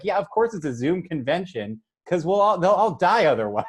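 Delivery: rising comic exasperation; impatient retort. Retold or imitated. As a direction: state the obvious, out of patience. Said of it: "I had no patience for them".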